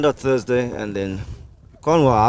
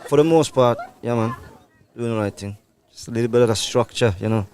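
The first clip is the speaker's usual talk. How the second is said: put-on West Indian accent. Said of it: "are you gonna talk to us in your normal accent now".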